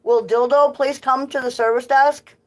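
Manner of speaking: store PA announcement voice; flat echoey pa page. Retold or imitated. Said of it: "have 'em paged".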